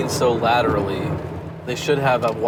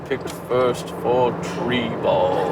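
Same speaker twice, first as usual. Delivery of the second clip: slow sad tree voice; slower than usual. Pretend.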